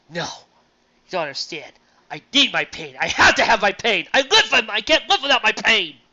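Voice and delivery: building to a loud, high plea; mild Kirk impression, rising into insistence; Star Trek Five quote. Quoting Kirk refusing to lose his pain, building loud. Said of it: "good line out of Star Trek Five".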